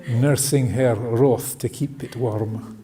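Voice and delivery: slow, lightly voiced Scottish accent; hint of amateur Scottish recital; bad Scottish accent. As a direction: draw it out with a rough attempt at Scottish. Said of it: "Forgive my bad Scottish accent".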